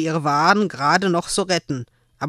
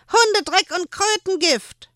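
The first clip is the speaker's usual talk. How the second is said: hohe, verzerrte Koboldstimme; fluchend. Acted. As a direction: fauch den Fluch wie ein altes Männchen. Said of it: "Der Fluch kam von Erwing". (Erwing verflucht die Händlerin mit greller Stimme)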